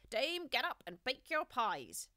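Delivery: high, loud, slow rooster cry; crowing cocks. A narrator's reading. Cocks crying out to wake the dame, loud and high. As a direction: crow it out like a cockerel at dawn. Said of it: "the cocks cried out".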